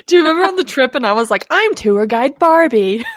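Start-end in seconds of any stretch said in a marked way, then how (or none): 1.5-3.0 put-on Barbie accent, drawn out; slow tour guide Barbie in an accent; changed accent. Reminding a friend of her trip line, in a changed accent. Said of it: "I love when the accent changes".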